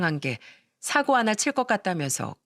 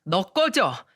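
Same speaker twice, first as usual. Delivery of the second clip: angry outburst. Acted. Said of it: "동서에게 막 화를 냈거든요".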